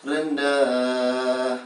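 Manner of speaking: rendah sung low after turun. Shown as a demonstration. Teacher demonstrating the low tone. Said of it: "di bawah nada turun".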